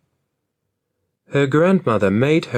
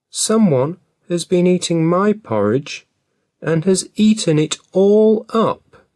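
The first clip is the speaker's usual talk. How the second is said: put-on high, louder baby voice; little baby bear voice; 8 semitones higher, 4 dB louder than usual. A narrator's reading. Baby Bear finding his porridge all eaten, high and loud. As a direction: squeak it like a tiny upset cub. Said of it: "he said in a little baby voice".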